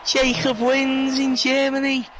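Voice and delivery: high, slow, building victory call; excited finish call. Real, not acted. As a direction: call the win like a commentator.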